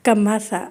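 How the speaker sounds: کماسا said with a hard س instead of ث; the mistake: کماسا with a hissed س; wrong s sound. Shown as a demonstration. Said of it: "اگر آپ نے ہلکا سا بھی کماسا کر دیا نا". (غلط تلفظ کماسا، س کی آواز)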